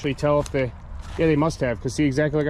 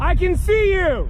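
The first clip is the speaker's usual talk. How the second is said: shouting; 14 semitones higher, 5 dB louder, slower than usual. Real, not acted. Yelling at approaching thing.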